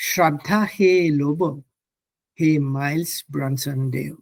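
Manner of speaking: measured Assamese verse recital; poem recitation. Shown as a demonstration. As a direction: recite the poem line by line, pausing after each. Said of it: "I will now recite the Assamese poem".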